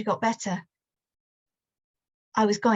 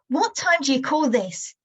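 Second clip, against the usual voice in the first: a mild raised-voice yell, a touch higher; an angry father, lightly voiced; father shouting; 4 semitones higher than usual. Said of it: "Dad is shouting".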